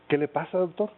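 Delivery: a light hint of a northern Mexican Villa accent; Pancho Villa accent. Villa asks the sad doctor what's wrong, light northern accent. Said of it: "así con ese acento, ¿no? de Villa".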